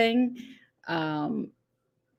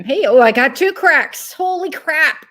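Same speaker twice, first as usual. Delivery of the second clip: surprised exclaim; 5 semitones higher, 10 dB louder than usual. Real, not acted. Reacting to two cracks.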